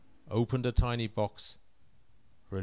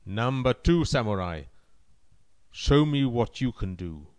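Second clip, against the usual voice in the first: commanding emperor voice; 5 dB louder than usual. Acted. Emperor summons second samurai.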